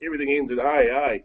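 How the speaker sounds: a lightly played Toowoomba accent; put-on Toowoomba accent. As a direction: ham up the Toowoomba accent, tagging eh onto everything. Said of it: "I'll put on a bit of a, a Toowoomba accent for you".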